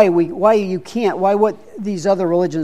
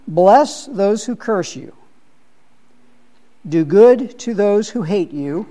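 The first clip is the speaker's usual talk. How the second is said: measured, slightly raised Bible reading; scripture reading. Acted. Leader reads Jesus' words to the study group, measured scripture reading. Reads Sermon on the Mount aloud.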